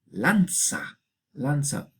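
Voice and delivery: "lanza" with z said as ts; old Castilian "lanza", affricate ts before the A; medieval Castilian ts. Shown as a demonstration. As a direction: say "lanza" as lan-tsa. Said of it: "que se hace tsa".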